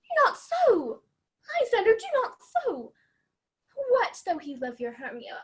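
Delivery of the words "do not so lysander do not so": higher urgent plea; pleading. Acted. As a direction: beg him to stop. Helena pleads to stop him.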